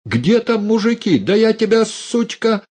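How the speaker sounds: very high, enraged threat; furious shout. Acted. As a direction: scream at her. Uncle threatens niece.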